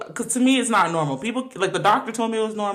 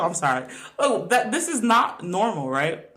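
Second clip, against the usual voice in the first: ordinary talk, nothing marked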